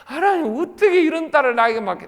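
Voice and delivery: high-pitched mock lament; imitated tearful wailing. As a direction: retell her helpless complaint to God. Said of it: "엉엉 울었대". (우는소리를 흉내 내며 하소연하듯)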